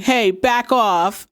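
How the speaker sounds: slow, drawn-out mock tough talk; mocking imitation. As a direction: parody her bravado, stretched out slowly. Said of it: "Cindy mocks Piper".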